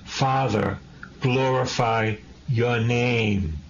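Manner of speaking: slow, drawn-out prayer to the Father; slow prayerful plea. Shown as a demonstration. Preacher voicing Jesus praying to the Father, slow and drawn-out. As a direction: pray it slowly, lingering on glorify. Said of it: "What do I say?".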